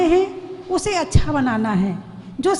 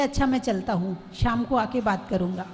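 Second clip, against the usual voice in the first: calm husband; 7 semitones lower, 7 dB quieter than usual. Retold or imitated. Calm husband leaving for office.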